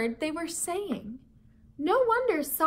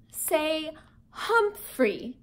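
gentle correction; 2 semitones higher, much slower than usual. Acted. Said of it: "Saya gently corrected him".

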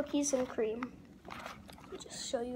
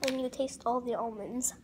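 chewing while talking; mouth full. Real, not acted. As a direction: stick between teeth. Seen 1: Chocolate stick held in mouth, biting it while speaking.

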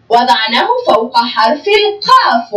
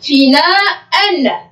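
فناء stretched slowly as the correct form; careful drawn-out فناء; slow correct reading; much slower than usual. Shown as a demonstration. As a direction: model فناء slowly and clearly. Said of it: "بل تكتب هكذا".

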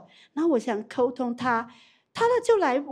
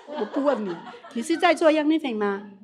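laughing question; 3 semitones higher than usual. Real, not acted. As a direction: laugh while you ask it. Laughing while role-playing the question. (边笑边问)

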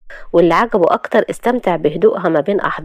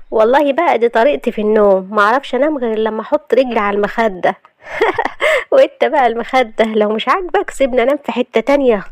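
lightly voiced young wife, higher and teasing; a hint of a cheeky wife complaining about being held; playful young wife; 4 semitones higher than usual. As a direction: Shahd teasing her husband in a higher voice. Narrator voices Shahd.

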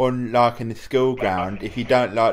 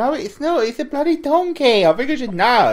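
indignant insistence; 11 semitones higher, 3 dB louder than usual. Real, not acted. Heated donkey-or-island argument.

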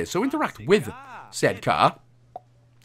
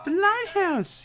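announcer voice; 3 dB quieter, slower than usual. Pretend. Announcing the location dramatically.

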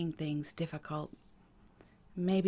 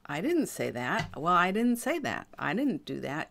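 mock gaslighting denial. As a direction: play the wrongly accused, pitch swooping up and down. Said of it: "gaslight you with that".

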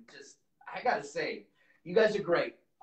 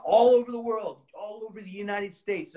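excited; 6 semitones higher, 6 dB louder than usual. Real, not acted. Hyping fans for Sworn Fest.

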